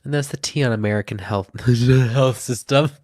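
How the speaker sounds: stuffed-up sinus voice; clogged nose. Real, not acted. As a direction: talk through blocked sinuses. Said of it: "my sinuses just got clogged".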